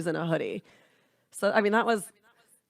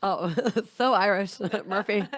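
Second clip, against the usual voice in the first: laughing. Real, not acted. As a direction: tease through giggles. Joking on the Irish accent.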